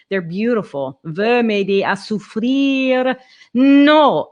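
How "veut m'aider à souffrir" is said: Veut m'aider à souffrir slowed with a clear accent on souffrir; accented phrase. Shown as a demonstration. Coach showing singer where to accent the line. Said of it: "you can really give that an accent".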